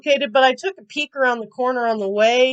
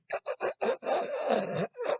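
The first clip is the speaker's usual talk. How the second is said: soft muffled giggle, copying mom; quiet imitation of mom's muffled laughter; imitated stifled laugh; 13 dB quieter than usual. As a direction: mimic a held-back laugh on the phone. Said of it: "she's doing that".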